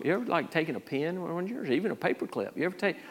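soft, casual imitation of a street preacher; gently probe, imitating a casual chat; conversational questioning. Street preacher asking Linda about small thefts, soft and conversational. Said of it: "he'll just have a conversation with people".

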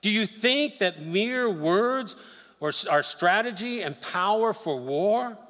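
lightly voiced mocking conqueror; taunting Assyrian king. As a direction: sneer it out as the boastful king. Preacher voicing the Assyrian king.

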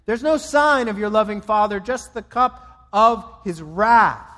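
loud, high, stern pronouncement; stern voice of wrath. Acted. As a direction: proclaim judgment like thunder from heaven. God's wrath voiced against Jesus.

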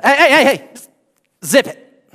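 high, loud mock hush of the mourners; hammed-up hey hey hey, zip it; playful Jesus hush. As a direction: shout them down like a teacher silencing a rowdy class. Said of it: "That's my translation".

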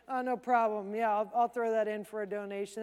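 casual throwaway mumble, a little low; sparing, offhand. Acted. Giver tossing spare change in for a donation, offhand. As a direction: toss it off like it costs nothing. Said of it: "That's sparingly".

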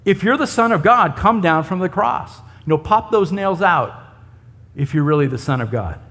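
mocking taunt. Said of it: "can you sense the sarcasm, the mocking?".

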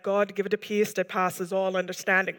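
lightly imitated Caribbean accent. Simple Paul praying over her, light Caribbean accent. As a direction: pray with a hint of Caribbean lilt. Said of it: "little Caribbean sort of accent".

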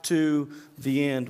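high, loud, swaggering promise of loyalty; boastful Peter. Retold or imitated. Peter boasting loudly to Jesus that he'll never desert him. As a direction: puff up and swear you'll never leave. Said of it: "He, he was like".

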